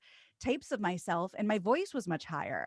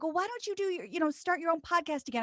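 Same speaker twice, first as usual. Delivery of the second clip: imitated people suggesting; 8 semitones higher, faster than usual. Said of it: "when people are like".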